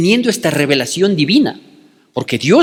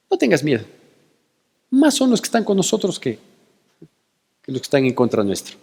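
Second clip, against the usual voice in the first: softer, calm and steady; calm reassurance; 3 dB quieter, faster than usual. Retold or imitated. Prophet calmly reassuring his scared servant, soft and steady. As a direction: settle the frightened servant gently. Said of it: "la tranquilidad del profeta Eliseo".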